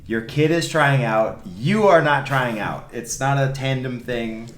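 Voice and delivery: slow, loud and emphatic, each word laid down; firm lecture. Retold or imitated. Coach laying down the law to parents, slow and firm. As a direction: spell it out firmly for the parents.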